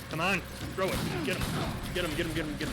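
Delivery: excited urging. Real, not acted. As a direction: cheer it on, hyped up. Urging on during a firefight.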